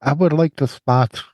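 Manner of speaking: nose clipped shut; pinching nose. Real, not acted. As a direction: talk with a clip on your nose. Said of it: "You still got the fucking chip".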